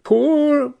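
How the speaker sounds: a scornful rising Poor?; surprised echo. Acted. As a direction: laugh off the word Poor?. Sibyl echoes her own word.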